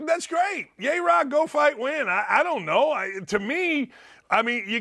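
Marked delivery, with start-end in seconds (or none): 0.1-2.1 sarcastic cheer. Acted. Mocking Skip's cheerleading.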